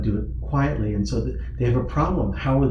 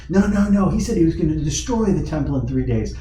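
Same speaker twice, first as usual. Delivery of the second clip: louder, higher, insistent objection; acted squabbling correction; contradicting witness; 5 semitones higher, 3 dB louder than usual. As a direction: cut in to correct a rival witness.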